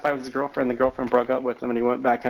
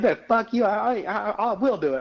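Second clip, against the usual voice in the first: mocking laugh; 9 semitones higher than usual. Mocking friend's threat while laughing.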